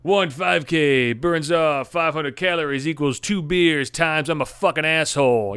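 slow, smug imitation of a run-club member; mock know-it-all voice reciting beer math; mocking run-club bro. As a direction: drag it out like a smug club runner. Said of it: "It'll be like".

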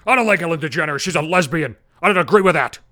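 hammed-up shouting dad; retold shouting. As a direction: bark it like an angry bigot dad. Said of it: "just starts shouting".

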